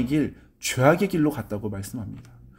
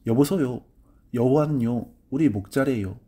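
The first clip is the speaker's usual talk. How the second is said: Gangwon dialect. Retold or imitated. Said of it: "강원도 사투리로 이 구절을 보니까".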